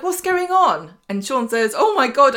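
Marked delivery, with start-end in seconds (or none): 0.0-1.0 high, raised startled question; imitating someone taken aback; mock bewilderment. Acting Lawrence walking in, puzzled. 1.8-2.4 high, loud alarmed cry; hammed-up frightened outburst; mock panic. Acting Sean fearing murder.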